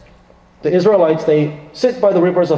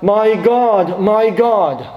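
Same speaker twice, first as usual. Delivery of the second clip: anguished cry; 5 semitones higher, much slower than usual. Acted. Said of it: "he cries out".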